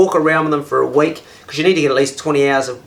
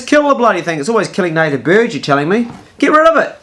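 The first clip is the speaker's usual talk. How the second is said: insistent mate; 4 semitones higher, 4 dB louder than usual. Retold or imitated. Bruce insisting.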